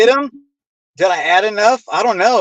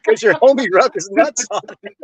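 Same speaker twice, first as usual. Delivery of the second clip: realizing, laughing; 3 semitones higher than usual. Retold or imitated. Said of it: "Then I'm like".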